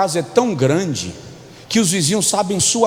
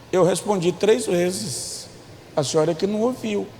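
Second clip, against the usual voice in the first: filho respondendo; 5 dB quieter than usual. Acted. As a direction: defend yourself quietly to mom. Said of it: "Aí Josué responde lá". (filho se justificando baixinho, em tom grave)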